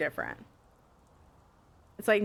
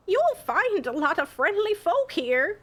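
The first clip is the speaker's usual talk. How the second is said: higher, slow, shaky stab at an Irish accent; attempted Irish accent; 7 semitones higher, slower than usual. Shown as a demonstration. Streamer testing a villager's voice, attempted Irish accent. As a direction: try a drawn-out, singsong Irish lilt. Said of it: "I don't think it really sounds like Irish".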